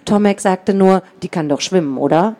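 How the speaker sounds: put-on reading a children's book aloud; story narration. A narrator's reading. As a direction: tell it like a storybook. Author reads the book aloud.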